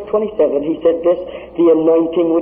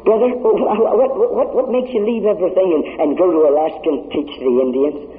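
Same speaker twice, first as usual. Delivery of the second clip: excited stammering question; 2 semitones higher than usual. Acted.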